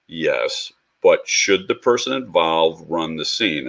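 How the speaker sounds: steady him down gently; calm reply. Retold or imitated. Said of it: "he looked at me very calmly".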